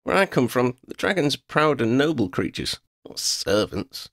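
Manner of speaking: high, pointed retort, slowing at the end; proud girl. A narrator's reading. Girl scorns servant dragon, high pointed voice. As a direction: lecture the dragon.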